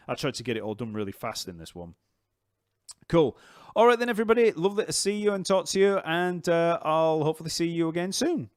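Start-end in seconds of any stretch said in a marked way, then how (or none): 3.1-8.5 high, loud, bright goodbye; cheerful sign-off. Real, not acted. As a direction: sing out a big farewell.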